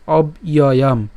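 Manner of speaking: অব ইয়য়াম slowly, split as "ob, iyoyam"; broken into parts. Shown as a demonstration. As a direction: pause after "ob" in অব ইয়য়াম. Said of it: "ভেঙে উচ্চারণ করলে".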